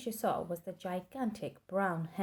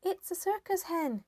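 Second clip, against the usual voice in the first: put-on old woman shouting; 11 semitones higher, 4 dB louder than usual. A narrator's reading. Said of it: "Grandma shouted from the rooftop".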